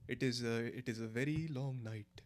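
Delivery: measured Indian accent. Shown as a demonstration. Streamer retrying to show chat, in an Indian accent. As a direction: carefully put on an Indian accent. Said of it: "I can still do Indian accent".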